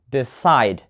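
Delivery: decide as de-CIDE; stress on second syllable. Shown as a demonstration. Teacher repeating it correctly, decide stressed on CIDE. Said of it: "The stress is on the second syllable".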